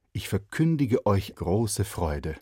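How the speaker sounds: slow solemn proclamation; solemn angel. Acted. Boy rehearsing the angel line, solemn. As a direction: ich verkündige said grandly, stretched.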